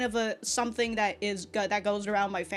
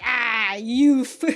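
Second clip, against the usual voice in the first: mock wistful sigh; 8 dB louder than usual. Character voiced in recap.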